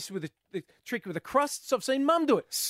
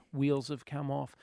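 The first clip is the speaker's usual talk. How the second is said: ordinary delivery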